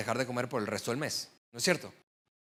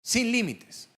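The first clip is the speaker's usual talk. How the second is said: "sin límites" lifted higher and pressed, falling at the end; stress on sin límites; 5 semitones higher, slower than usual. Shown as a demonstration. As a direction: repeat "sin límites" as a hammer blow. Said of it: "Dicho de otra manera". ("sin límites" remarcado, más agudo)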